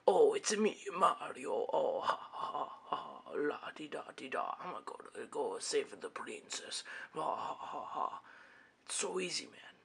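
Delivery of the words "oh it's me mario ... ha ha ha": lightly hammed-up Mario, singsong; tossing off a quick Mario imitation; mock Mario voice. Mocking how easy Mario is, a hint of Mario. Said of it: "is be like".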